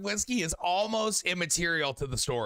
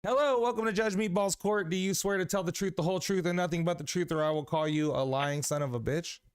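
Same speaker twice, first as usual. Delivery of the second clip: mock judge; 3 semitones higher than usual. Host opens as Judge Meatball.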